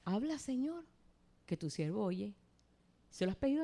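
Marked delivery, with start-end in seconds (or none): 0.1-2.4 prayer. Shown as a demonstration. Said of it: "dígale al Señor eso".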